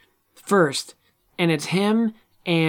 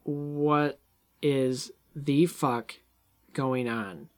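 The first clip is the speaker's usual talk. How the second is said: groggy confusion; 3 semitones lower, 5 dB quieter, much slower than usual. Retold or imitated. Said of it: "then she's like".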